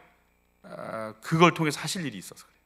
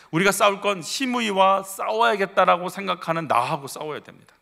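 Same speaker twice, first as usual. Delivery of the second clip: normal talking voice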